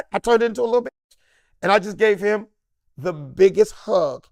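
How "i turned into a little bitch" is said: loud, high, hammed-up blubbering; mock crying. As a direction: wail it like a sobbing fan. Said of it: "crying like a little groupie bitch".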